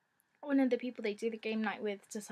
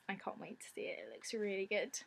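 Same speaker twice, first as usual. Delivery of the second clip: whispering; 2 semitones lower, 6 dB quieter than usual. Real, not acted. Hushed excitement.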